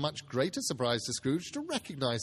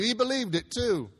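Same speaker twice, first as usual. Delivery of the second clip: loud; 8 semitones higher, 7 dB louder than usual. A narrator's reading. Nephew voiced in story.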